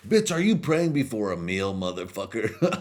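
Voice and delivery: mock king yelling. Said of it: "He was like".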